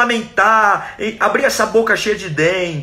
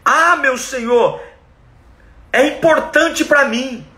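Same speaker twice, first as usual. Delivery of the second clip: earnest plea; 6 semitones higher, slower than usual. Acted. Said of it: "Ou seja".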